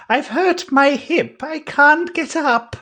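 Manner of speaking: put-on high, slow, pained old voice; hurt old man. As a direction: groan it out like an injured old man. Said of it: "He goes".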